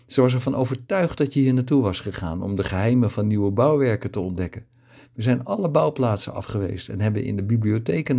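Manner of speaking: excited chatter. Acted. Fatima tells Kibbe how she and Anna searched, lightly excited. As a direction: pour it out eagerly, mildly excited. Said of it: "Daarna begon ze opgewonden te praten".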